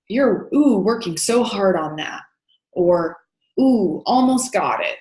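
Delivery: bright, eager praise with a lifted ooh; mild excited encouragement; encouraging excitement. Shown as a demonstration. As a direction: cheer the child on gently. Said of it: "Match the child's level of affect".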